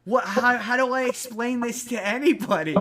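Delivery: retold disbelief, high and loud; shocked friend. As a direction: yelp it out as a friend who can't believe his eyes. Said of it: "And then his friend's like".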